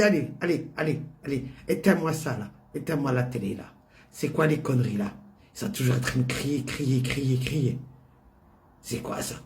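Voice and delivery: a hint of an annoyed elderly mother; grumpy old mother. Mother orders TV off.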